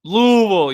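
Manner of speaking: Louisville as a loud, slurred "Loo-vul"; right local Louisville. Shown as a demonstration. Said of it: "you said it right".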